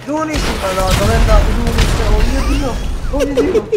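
high desperate cries for help; panicked screaming. Acted. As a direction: scream for help while fleeing. Screaming for help, chased by alien.

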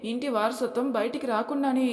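high, mocking scoff; scornful mother. Mother-in-law mocks the daughter-in-law, scornful. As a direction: scoff at the idea of work.

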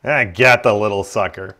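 put-on mangle an Australian accent on purpose; terrible Australian accent. Gamer hamming a bad Australian accent at friends. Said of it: "That was a terrible Australian accent".

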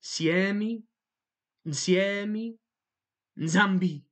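Siemi, Nsiemi, Nzambi with nasal onsets building; nasal emphasis. Shown as a demonstration. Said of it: "Do you hear it?".

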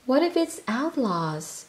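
a small creature's worried squeak; nervous squeak. Acted. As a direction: Sniff lagging behind, nervous squeak. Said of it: "he squeaked".

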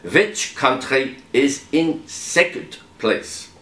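mock German accent, lightly done. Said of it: "an opportunity for my German accent".

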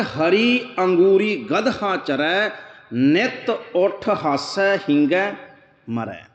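slow, chanted reading of the verse; slow devotional recitation of gurbani; scripture recitation. Acted. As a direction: draw out each word like a hymn line.

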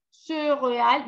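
"Céréale" said with a rounded first vowel; wrong rounded vowel. Shown as a demonstration. Teacher repeating the vowel to avoid. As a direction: purse the lips on "Céréale". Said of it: "no, yo digo cereal".

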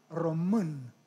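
"Ρωμούν" with the Romanian central vowel, ro-mɨn; Romanian pronunciation. Shown as a demonstration. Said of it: "Οι Ρουμάνοι". («Ρωμούν» με ρουμανική προφορά)

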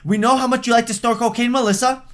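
mock scolding mom. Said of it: "Was that too much?".

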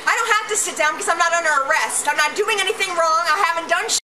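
breathless, rushed panicked words; gasping for air while protesting; hyperventilating. Real, not acted. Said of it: "I'm hyperventilating".

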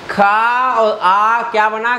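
खा और आ spelled out slowly, rising at the end; slow quiz question. Shown as a demonstration. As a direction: draw it out for the student. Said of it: "slow teaching question". (धीमे से पूछा गया सवाल)

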